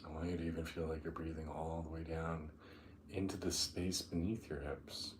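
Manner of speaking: unhurried meditation guide, long pauses between phrases; guided meditation. Acted. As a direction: ease them down into the breath, drawing out key words.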